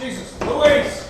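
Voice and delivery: slow, high, loud exclamation; shocked shout. Acted. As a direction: yell in alarm. Man shocked at her outburst.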